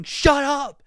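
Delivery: imitated high, full-volume scream; the singer yelling. Reviewer mimicking the singer's part in a scream-off, high loud yell. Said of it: "Between the singer yelling".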